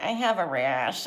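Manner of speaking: slow mimicry of an ad line; lightly put-on TV ad voice, drawn out; commercial character voice. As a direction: imitate the funny voice from a commercial. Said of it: "that voice kills me".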